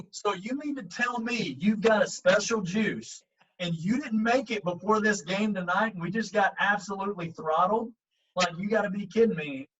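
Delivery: a hammed-up you-gotta-be-kidding-me; incredulous. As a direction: act out the coach's playful outrage. Incredulous retort to Reggie.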